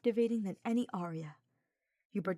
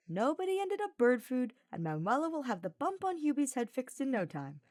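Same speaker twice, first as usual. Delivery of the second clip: light tone; 7 semitones higher, 3 dB louder than usual. A narrator's reading. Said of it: "in a light tone".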